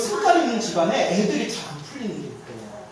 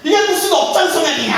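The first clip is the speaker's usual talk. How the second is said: raised, higher indignant cry; mock angry outburst; 6 semitones higher, 5 dB louder than usual. Old laywoman fussing about her karma, mock anger. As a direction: play the fuss in a retold complaint. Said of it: "막 난리 난리 치더라고요".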